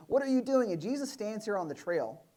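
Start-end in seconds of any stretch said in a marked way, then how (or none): 0.1-0.7 high, loud exasperated yell; high comic yell of disbelief; mock shout. Disciples shouting at Jesus.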